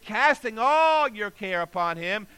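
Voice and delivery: ALL drawn out, high and loud; stress on ALL. Shown as a demonstration. Preacher requotes Peter to the congregation, stress on ALL. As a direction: lean long and hard on ALL.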